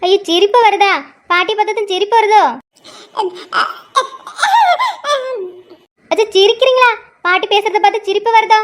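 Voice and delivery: put-on high, sing-song cooing at a baby; baby talk. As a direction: coo playfully to the grandchild.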